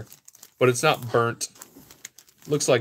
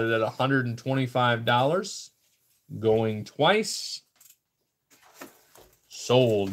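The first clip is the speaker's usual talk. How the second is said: measured going-once, going-twice call; deliberate auction countdown to the sale; auctioneer closing a sale. Real, not acted. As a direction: announce the final bid, pausing before sold.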